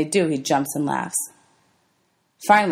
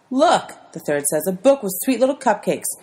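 mocking sneer; 5 semitones higher than usual. Bully mocks book.

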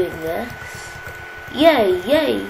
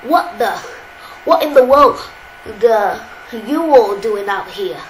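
character voice; 3 dB louder than usual. Acted. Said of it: "I'm gonna try doing the voices again".

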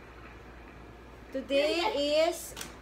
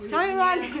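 cheeks stuffed full. Real, not acted. Mom's cheeks full of marshmallows.

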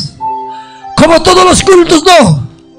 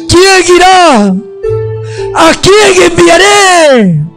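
pleading call; much slower than usual. Acted.

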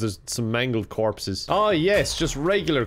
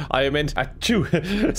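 weird sneeze; slower than usual. Real, not acted. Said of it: "Sorry, I just Sneeze weird".

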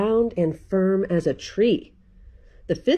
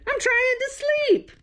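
cross shout. A narrator's reading. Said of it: "he shouted".

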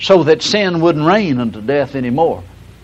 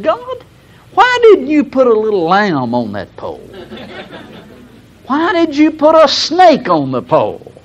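raised, indignant mock protest to God; mock angry complaint; 8 semitones higher than usual. Preacher retelling his old protest to God, mock indignant. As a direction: complain to God like a frustrated young reader. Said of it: "I said".

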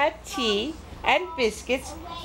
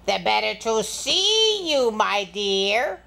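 lightly voiced sly wolf, drawn out; wolf posing as Grandma; slower than usual. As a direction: stretch the key word, lilt the endearment. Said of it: "the person in the bed said".

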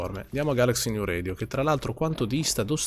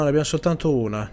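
ordinary talk

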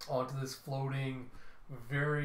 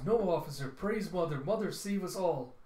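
put-on higher, hurried-to-appease voice of a girl facing an officer; anxious pleading; 5 semitones higher, 4 dB louder than usual. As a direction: plead devoutly, pitched up. Mila pleads with militia officer.

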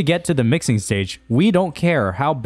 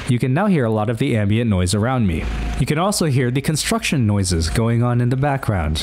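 squashed, noisy compressed mic; heavily compressed voice. Shown as a demonstration. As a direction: voice crushed by heavy compression. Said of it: "apply a large amount of compression to my voice".

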